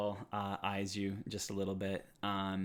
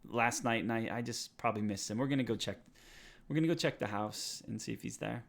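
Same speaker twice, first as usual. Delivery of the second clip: Cole's excuse; 4 semitones higher, 6 dB louder than usual. Acted. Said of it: "He's like".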